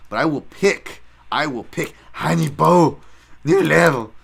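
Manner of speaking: half-hearted Hannibal voice; Hannibal impression. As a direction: slip back into his catchphrase. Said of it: "that's how he talks".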